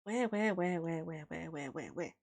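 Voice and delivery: where, where fading into duck quacks; mock duck noises, trailing off; quacking. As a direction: quack the words away to nothing. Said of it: "You like how I quack?".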